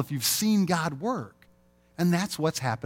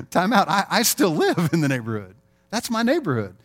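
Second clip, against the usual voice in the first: louder, higher alarmed protest; 5 semitones higher, 4 dB louder than usual. Retold or imitated. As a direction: stop them in mock panic. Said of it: "you'd be like".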